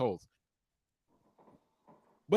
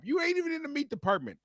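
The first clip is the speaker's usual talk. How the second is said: retold anger; 9 semitones higher than usual. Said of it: "acted quarrel with coworker".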